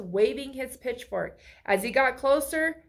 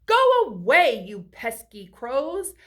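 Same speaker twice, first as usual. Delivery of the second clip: shouting; 2 semitones higher, 7 dB louder than usual. A narrator's reading. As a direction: shoo the crows off.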